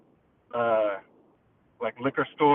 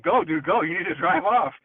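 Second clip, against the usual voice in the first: urgent retold yell; 5 semitones higher, 5 dB louder than usual. Urging friend to flee attacker.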